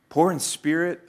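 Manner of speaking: acted bafflement; bewildered. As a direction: query it as a confused disciple. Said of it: "probably bewilderment and shock".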